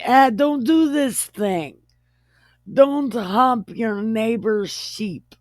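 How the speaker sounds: high-pitched offhand commandment; mock-divine telling-off; God, comically casual. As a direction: wave them off as a jokey God. Voices God giving casual orders.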